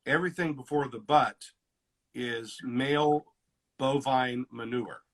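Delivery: slow, deliberate pause-filled punchline; slow quote delivery. Shown as a demonstration. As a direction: draw the quote out slowly for effect. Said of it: "this is a quote I like".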